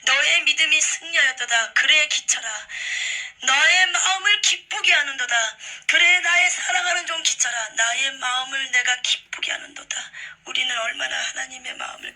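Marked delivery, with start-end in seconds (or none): 0.0-10.1 loud, high, proclaiming blessing; joyful voice of Jesus. Retold or imitated. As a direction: exult over a faithful servant. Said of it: "막 그러는 거예요".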